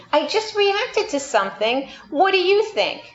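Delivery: rising, mocking What do you think; New York sarcasm. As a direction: toss it off with a sarcastic edge. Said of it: "as a New Yorker".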